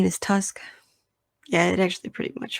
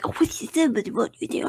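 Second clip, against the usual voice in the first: high mocking voice, trailing into a whisper; mocking friends; 5 semitones higher than usual. Mocking Raul and Kelvin for doubting the movie, high mock voice. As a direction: parody the friends' nitpicking in a high put-on voice. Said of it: "they were like".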